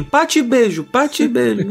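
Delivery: bordão cantado, agudo; imitando a apresentadora. Retold or imitated. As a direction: despedida de apresentadora infantil. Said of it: "ela falava assim". (imitando a Pati Beijo se despedindo)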